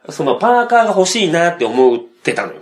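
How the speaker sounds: ordinary talk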